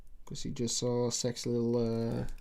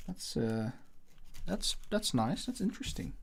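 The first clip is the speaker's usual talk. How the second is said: mock impressed; 2 semitones higher, 6 dB quieter than usual. Mock-admiring paper towel art.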